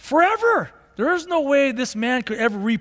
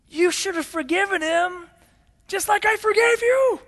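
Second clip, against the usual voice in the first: preaching rebuke; 7 semitones higher than usual. Acted. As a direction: thunder the rebuke at him. King rebukes wicked slave.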